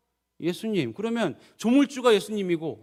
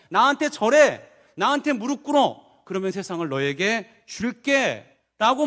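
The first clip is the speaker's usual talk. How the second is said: tempting devil; 4 dB louder, slower than usual. Acted.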